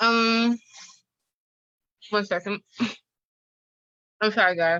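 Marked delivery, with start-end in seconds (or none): 2.1-4.8 choked, broken-off speech. Introducing their work to the group, the speaker breaks off: choking while talking. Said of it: "I'm like choking".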